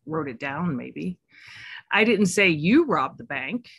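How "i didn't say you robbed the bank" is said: you pushed up and out; stress on you. Shown as a demonstration. Coach demonstrating emphasis to listeners, stress on you. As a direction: punch the word you. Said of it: "emphasize a different word each time".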